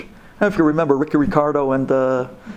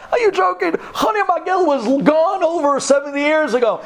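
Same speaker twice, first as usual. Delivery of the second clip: high, scoffing students' voice; a sneering crowd of students scoffing at an old man; mocking students; 13 semitones higher than usual. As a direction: laugh him off in disbelief. Students laugh him out.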